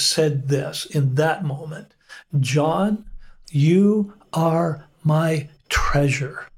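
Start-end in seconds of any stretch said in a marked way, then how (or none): 2.4-6.5 tender. Retold or imitated. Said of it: "Jesus' voice spoke so deeply".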